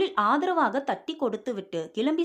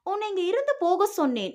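uncontrolled anger; 7 semitones higher than usual. A narrator's reading. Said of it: "அடக்கப்படாத கோபத்தில்".

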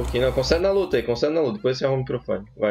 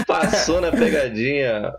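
laughing; 3 semitones higher, much slower than usual. Real, not acted. Laughing after prank.

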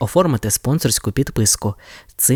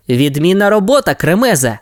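praise; 6 semitones higher than usual. Acted. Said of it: "похвалив щеня Райдер".

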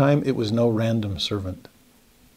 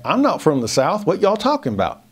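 mock Southern protest, pitched up; Southern accent; 5 semitones higher than usual. Peter denies his accent to his accusers, mock Southern. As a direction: deny the accent in a Southern twang. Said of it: "We can tell by your accent".

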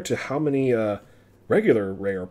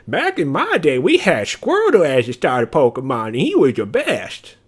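put-on grumpy old man; 3 semitones higher, 8 dB louder than usual. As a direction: bellow it like a cranky grandpa. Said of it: "maybe I'm just a grumpy old man".

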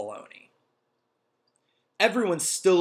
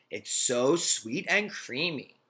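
put-on delighted girl voice; slower than usual. Dee Dee voiced in story.

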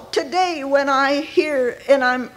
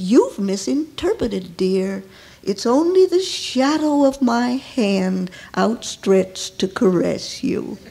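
tender; 3 semitones lower than usual. Acted. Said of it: "spoke so tenderly".

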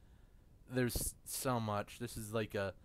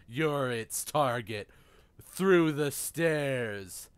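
booming villain proclamation; dark lord; 5 dB louder than usual. Pretend.

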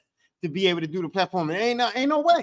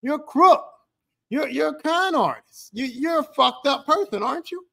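mock accusing interviewer; 4 semitones higher than usual. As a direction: play the interviewer calling him a crook to his face. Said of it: "They were saying".

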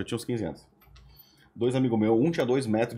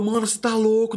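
incredulous friend; 11 semitones higher, 4 dB louder than usual. Retold or imitated. Friend reacting in disbelief.

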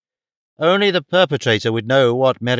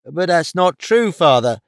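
higher-pitched daughter's mild cry; sheepish protest; 5 semitones higher than usual. A narrator's reading. Daughter contradicting her father, high sheepish protest. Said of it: "shouted Daisy sheepishly".

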